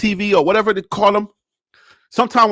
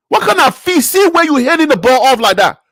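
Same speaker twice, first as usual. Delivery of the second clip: Liberian English; 4 semitones higher than usual. Acted. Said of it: "I had to go to my Liberian English".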